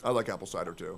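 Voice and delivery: low soft grumble; deep put-on voice. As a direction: rumble it low and sleepy. Continuing the deep voice.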